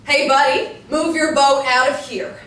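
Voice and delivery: loud, indignant shout; yelling across water. Acted. Wendy shouts at the fisherman from her porch. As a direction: bark it across the lake.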